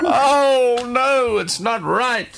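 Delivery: high, laughing exasperation. Real, not acted. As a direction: laugh through the words. Old lady laughing at confusion.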